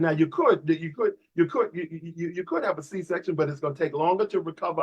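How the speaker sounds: soft, hesitant doctor's caution; quiet, halting medical advice; acted cautious doctor. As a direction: imitate a doctor gently hedging, voice dropped. Voices a doctor cautioning patient.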